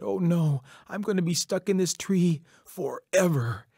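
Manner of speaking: high, distressed character voice; despair, pitched well up; dismayed wail. A narrator's reading. Coyote realizing he is stuck in the tree, wailing in dismay.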